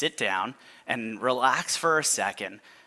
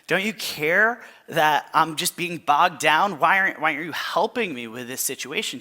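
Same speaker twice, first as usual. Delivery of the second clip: mock desperate cry to God. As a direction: cry out to God, overwhelmed but joking. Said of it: "it's like".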